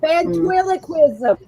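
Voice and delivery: put-on failed Harley accent turned lisp. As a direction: say it with a lisp, slowly. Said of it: "I just went to my lisp".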